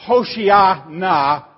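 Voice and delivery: Hoshiana stretched out slowly; slow emphatic Hoshiana. Shown as a demonstration. Preacher dwelling on the Hebrew word. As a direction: draw out Hoshiana. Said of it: "that phrase".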